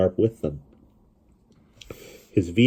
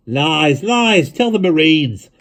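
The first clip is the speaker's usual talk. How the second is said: higher, louder jeer; shouting; 10 semitones higher, 6 dB louder, much slower than usual. A narrator's reading. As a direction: heckle from the crowd. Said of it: "somebody shouted".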